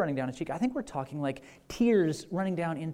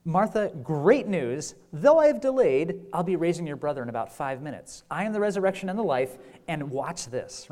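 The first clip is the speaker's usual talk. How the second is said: imagined boastful Jesus; 4 dB louder than usual. Retold or imitated. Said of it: "He doesn't say that".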